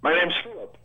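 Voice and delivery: breaking up on a cell phone; choppy, dropping-out phone line; glitching audio. Real, not acted. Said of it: "That's breaking up pretty good".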